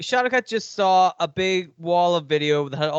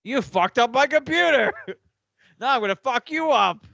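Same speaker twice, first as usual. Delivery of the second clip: higher, hammed-up threat; mock angry; 7 semitones higher than usual. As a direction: play it as a mock furious rant. Acting angry character.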